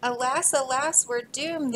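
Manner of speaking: hammed-up lament of doom; wailing. Beavers facing the shark wail in mock despair. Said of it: "they wailed".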